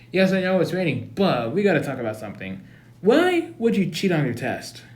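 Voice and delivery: hammed-up sibling scolding; mock scolding big brother. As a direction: tell him off like a big brother.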